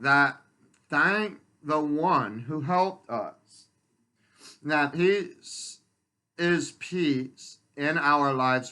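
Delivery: earnest recitation of a personal poem; poetry reading. Acted. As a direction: read your own poem aloud, phrase by phrase. Reads own poem aloud.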